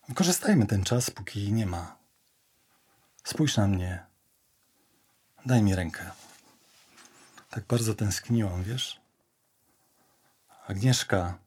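low, soft intimate appeal; tender coaxing. Acted. Telling Agnieszka she missed her, tender coaxing. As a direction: draw a lover gently closer. Coaxing a lover to come close.

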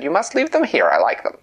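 high, loud royal command; imperious queen demanding; leprechaun queen. Acted.

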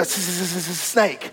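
soft, low hiss stretching every s sound; hissing snake. Shown as a demonstration. Preacher hisses the snake's name for the church. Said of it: "you gotta, you know, put that with him".

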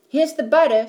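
put-on loud, high boyish shout. A narrator's reading. Boy shouts to his mother with the egg, loud and high. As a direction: call it out, proud of the egg. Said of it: "shouted Jack".

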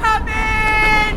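high, loud, tearful call; crying call. Acted. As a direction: summon him through tears. Second summons, crying heard.

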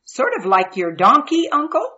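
put-on high bright child voice; curious young boy asking; eager little boy. Boy teasing uncle.

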